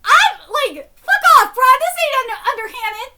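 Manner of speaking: high, loud bro-style outburst; mock bro rant. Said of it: "he's like".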